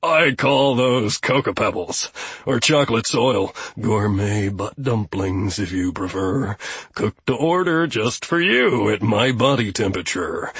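dry, resentful billy goat; a grumpy goat settling scores; sardonic goat voice. Acted. Goat Gustav gloats.

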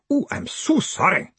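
high, sugary apology; sickly sweet sorry; syrupy. Acted. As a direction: drip false sweetness. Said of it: "ended in syrup".

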